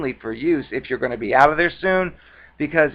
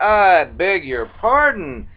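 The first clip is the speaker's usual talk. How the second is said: mock indignant; 4 semitones higher, 3 dB louder, slower than usual. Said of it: "I'm like".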